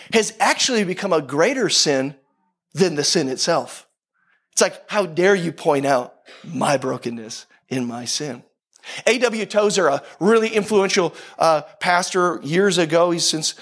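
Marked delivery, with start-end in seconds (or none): 4.9-8.4 low, slow indignation; slow, lowered mock outrage; mock offended. Voicing culture's offended reply.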